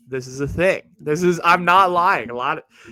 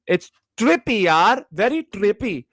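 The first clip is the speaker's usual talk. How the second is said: put-on higher-pitched, playful South Asian accent; 6 semitones higher, 4 dB louder than usual. Joking to fellow immigrants, in a South Asian accent. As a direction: switch into a lively desi accent. Switches into desi slang for effect.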